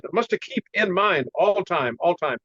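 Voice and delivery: put-on teacher's halting Chinese-accented English; imitated Chinese accent. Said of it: "I have to do his funny voice like that".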